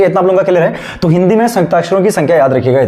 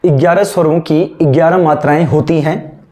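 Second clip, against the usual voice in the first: slow, word-by-word dictation; classroom dictation. Shown as a demonstration. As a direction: dictate slowly for students taking notes. Dictates and repeats notes.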